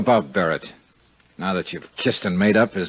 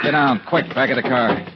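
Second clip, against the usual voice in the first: sudden warning; 3 semitones higher than usual. Acted. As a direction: snap out the warning. Shot fired, Johnny warns Maria.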